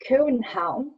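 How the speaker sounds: put-on boyfriend's Jutland-style København; Jutland pronunciation. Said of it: "and he would say".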